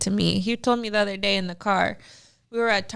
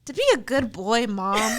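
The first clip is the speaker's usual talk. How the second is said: imitated plaintive child; sad little boy. Son answering mom's question, lightly voiced sad little boy. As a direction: play a young son explaining his trouble. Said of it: "looking really sad".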